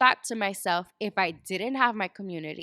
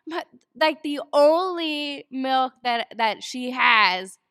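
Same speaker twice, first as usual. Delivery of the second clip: high, slow, tearful retelling of her own sobbing words; imitating herself crying over spilled milk; retold crying; 4 semitones higher, 6 dB louder, slower than usual. New mother tells husband she spilled the milk, mock tearful. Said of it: "And I, I'm crying".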